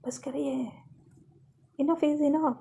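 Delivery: drawn-out, fed-up protest at little extra volume; understated exasperated shout; mild acted yell. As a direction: cut them off with a restrained cry. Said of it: "लवली एकदम चिल्ला के कहती है".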